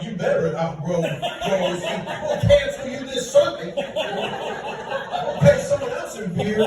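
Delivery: a hint of a bossy church elder, laughing; lightly voiced pushy congregation; mock church threat. Comedian imitates church cancelling him, mock stern. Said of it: "someone just decided, like".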